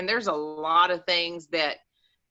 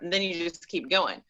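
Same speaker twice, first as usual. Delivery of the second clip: ordinary delivery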